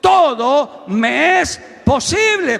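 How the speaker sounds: stretched-out preacher's cry; shouted declaration. Shown as a demonstration. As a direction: lead the crowd in a bold shout. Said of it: "Diga conmigo".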